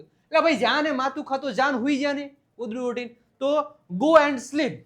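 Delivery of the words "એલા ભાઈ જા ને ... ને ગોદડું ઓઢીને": annoyed dismissal. Acted. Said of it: "આપણે કહીએ".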